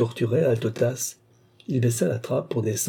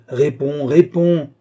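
insistent, then much louder and higher; building from a demand to a furious shout; demanding answer; 4 semitones higher, 7 dB louder, slower than usual. A narrator's reading. Old master demanding an answer from Balsamo, building to a shout.

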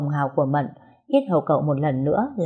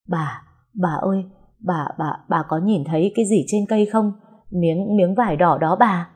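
frightened stammer. Acted. Terrified servant points at tree.

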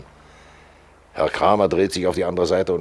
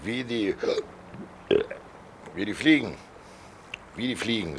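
hushed; 3 semitones higher, 9 dB quieter than usual. Acted. Figure speaks hushed throughout.

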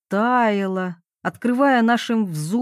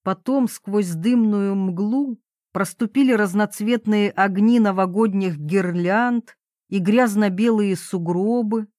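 plain reading voice

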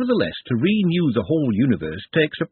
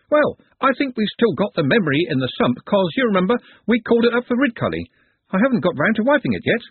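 hoarse skeleton voice; 9 semitones higher than usual. A narrator's reading. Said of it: "It had a rather hoarse voice".

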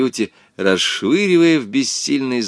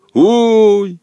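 bass groan; 9 semitones higher, 6 dB louder than usual. A narrator's reading. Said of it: "простонал он через несколько секунд басом".

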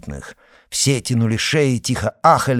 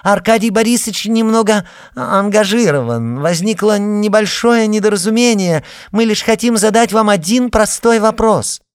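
much higher, louder, sugary call; loud, mock-sweet; 12 semitones higher, 7 dB louder than usual. A narrator's reading. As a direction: call her name with put-on sweetness. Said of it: "громко и нарочито ласково".

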